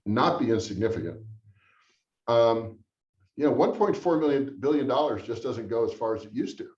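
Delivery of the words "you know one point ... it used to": dry mock lament over the money; deadpan sarcasm, understated; sarcastic. Real, not acted. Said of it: "I'm being a little sarcastic about that".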